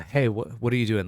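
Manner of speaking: weary sigh. Shown as a demonstration. Teacher shows English tone with a tired, fed-up greeting after a sigh. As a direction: sound fed up with them. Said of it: "And I can be like".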